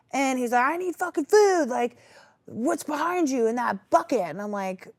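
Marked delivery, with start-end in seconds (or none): 0.6-4.2 retold demand. Aggressive customer quoted.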